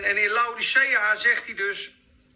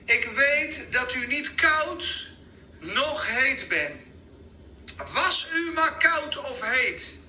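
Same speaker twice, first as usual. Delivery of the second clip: scripture reading; 5 semitones higher than usual. Acted. Reads scripture aloud.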